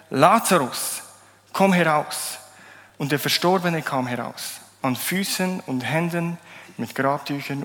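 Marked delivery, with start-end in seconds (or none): 0.1-2.4 Jesus calls Lazarus out of the tomb, loud. A narrator's reading. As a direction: call it out loud and commanding. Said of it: "rief er mit lauter Stimme". (laut gerufen, befehlend)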